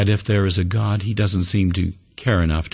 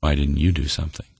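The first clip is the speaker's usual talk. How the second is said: subdued, quicker question turned back; sobering question; 2 semitones lower, faster than usual. Acted. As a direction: let the question land soberly, understated. God's question turned back on turtle.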